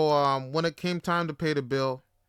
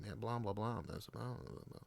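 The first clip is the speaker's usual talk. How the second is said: dismissive blah; 5 semitones lower, 16 dB quieter than usual. Retold or imitated. Dismissing the friend's reassurance.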